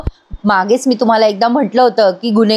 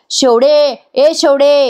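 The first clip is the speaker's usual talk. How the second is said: higher-pitched mock shout for someone; calling out; 4 semitones higher, much slower than usual. Daughter calling the constable over, mock shout. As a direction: call out to a man, only mildly raised. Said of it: "साक्षी मोठ्याने ओरडायला लागते".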